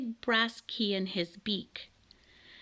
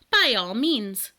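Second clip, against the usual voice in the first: louder, slow lordly command; ordered; 2 semitones higher, 6 dB louder, slower than usual. Acted. Bird king ordering Elmer to unpack, pompous. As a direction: grant it like a pompous monarch. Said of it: "ordered King Can the eleventh".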